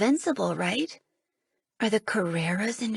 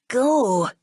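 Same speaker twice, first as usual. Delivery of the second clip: louder, fierce one-word warning; snarl; 4 semitones higher, 6 dB louder than usual. Acted. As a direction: snarl to drive her away. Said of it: "he snarls".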